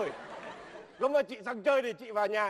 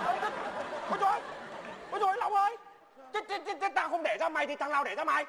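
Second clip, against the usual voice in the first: exasperated; 5 semitones higher, faster than usual. Acted. Father exasperated by son.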